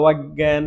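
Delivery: drawn-out অজ্ঞান, each sound spaced out; teacher spelling out অজ্ঞান slowly; careful slow demo. Shown as a demonstration. Teacher drawing out অজ্ঞান so students hear it. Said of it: "আমরা যেমন এরকম আরো কিছু পাই".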